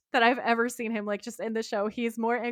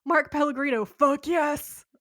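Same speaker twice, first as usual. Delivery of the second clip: excited cheer; 6 semitones higher, 4 dB louder than usual. Real, not acted. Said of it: "my notes just say in all caps".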